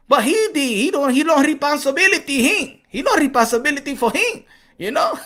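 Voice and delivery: lightly imitating Canelo in broken English; Canelo's accent. Imitating Canelo's Spanish accent for his fans. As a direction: play Canelo talking without his translator. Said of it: "talk like this".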